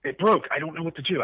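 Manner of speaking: high-pitched imitation of a flustered crewman; mock helpless panic. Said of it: "seeing the look on the guy's face".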